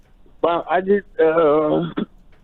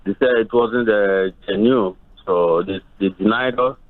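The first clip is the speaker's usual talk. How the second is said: muffled. Real, not acted. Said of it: "you're muffled".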